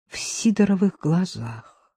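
usual speaking voice

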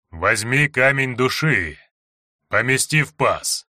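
slow, broken, distant demonic voice; eerie clipped voice. Acted. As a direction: speak in halting fragments. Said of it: "Жуткий голос звучал обрывисто".

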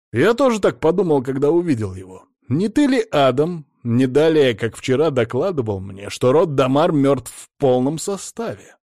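high, loud furious accusation. A narrator's reading. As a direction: lay into him in a rage. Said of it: "разъярённого безопасника".

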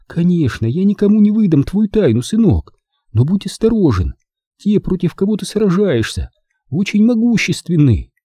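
high-pitched mother, earnestly warning her son; concerned motherly warning; caring mother. A narrator's reading.

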